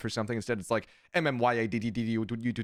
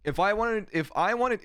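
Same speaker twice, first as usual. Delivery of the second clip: higher, louder, fed-up comeback; exasperated retort; 9 semitones higher, 3 dB louder than usual. Retold or imitated. Streamer retorting to the stans, higher and louder, exasperated. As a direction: push back hard, exasperated. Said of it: "And I'm like".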